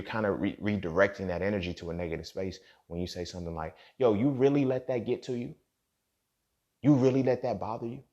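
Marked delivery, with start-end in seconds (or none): 4.0-8.0 higher-pitched incredulous questioning; mock disbelief. Woman reacting to a man's emotions, mock disbelief. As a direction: lift it into a needling question. Imitating dismissive response to his emotions.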